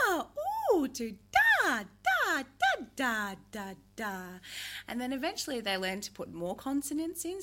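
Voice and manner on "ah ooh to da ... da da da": high, slow babbling ah and da; baby babble. Shown as a demonstration. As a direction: babble like a baby learning sounds. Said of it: "So they go from".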